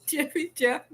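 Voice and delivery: reading a friend's chat greeting in a bright voice; high mock greeting. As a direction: chirp it up high like a cheery friend. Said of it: "Miss T R tells".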